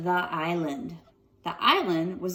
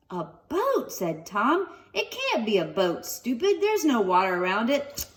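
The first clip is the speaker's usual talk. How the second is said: put-on Tom's boy voice; 3 semitones higher than usual. Tom voiced, scornful.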